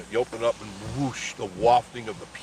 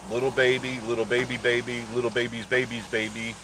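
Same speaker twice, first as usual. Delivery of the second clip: cooing. Real, not acted. Baby talk about raccoons.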